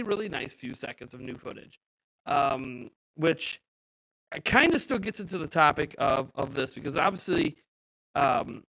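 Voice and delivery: glitchy digital voice; choppy robotic stream audio. Real, not acted. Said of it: "your audio is a little robotic".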